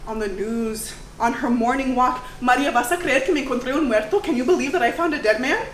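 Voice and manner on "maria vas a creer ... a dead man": animated retelling. Acted. Francisca tells Maria, acted.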